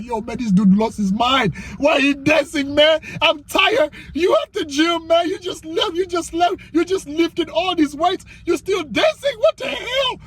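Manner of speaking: high-pitched exasperated disbelief; incredulous onlooker. Acted. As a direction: act out a baffled, worn-out bystander. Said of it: "Everybody looking at you crazy like".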